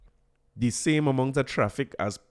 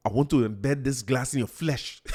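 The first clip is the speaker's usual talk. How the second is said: put-on Tobago accent. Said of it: "That's my best Tobago accent".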